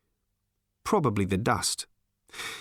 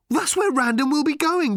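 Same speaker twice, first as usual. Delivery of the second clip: much higher and louder, thrilled; excited shout; 5 dB louder than usual. Acted. Arthur realising where Random is heading, excited shout. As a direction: blurt it out loud and high in excitement. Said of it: "said Arthur excitedly".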